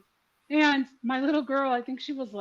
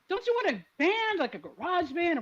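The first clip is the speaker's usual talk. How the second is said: retold coaxing; 6 semitones higher than usual. Acting out coaxing her daughter.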